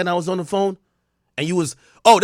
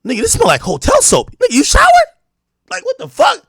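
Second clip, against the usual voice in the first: high, sharp accusing voice; suspicious girlfriend; 6 dB louder than usual. Retold or imitated. Jealous girlfriend accusing her man, high and sharp.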